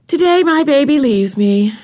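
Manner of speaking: high, smiling and tender; a mother letting go with a smile; fond mother. A narrator's reading. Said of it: "remarked Missus Quimby with a smile".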